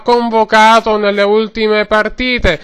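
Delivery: mock radio match report, words stretched out; football commentary. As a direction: report it like a stadium correspondent. Spoof live football report from stadium.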